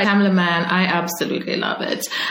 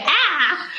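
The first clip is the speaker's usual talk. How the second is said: overwhelmed cry; 8 semitones higher than usual. Retold or imitated. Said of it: "I'm, like, in my feels".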